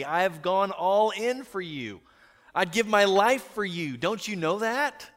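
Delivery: impassioned pleading, pitch high and swooping; Peter. Acted. Disciple begging Jesus not to leave, impassioned plea. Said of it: "I can imagine Peter".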